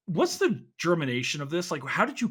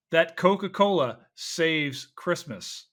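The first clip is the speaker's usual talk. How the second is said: mock ad pitch; 3 semitones higher, 4 dB louder, much slower than usual. Mock ad plug to guest.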